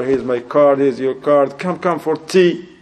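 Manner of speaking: eager host. Retold or imitated. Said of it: "if you're an engineer".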